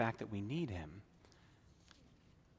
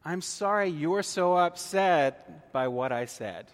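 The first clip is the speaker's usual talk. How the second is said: louder and slow, leaning on sorry; an insincere apology, spelled out slowly; slow emphatic non-apology; 3 semitones higher, 6 dB louder, slower than usual. Shown as a demonstration. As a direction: deliver the fake apology deliberately, a bit pointed. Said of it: "What you say is".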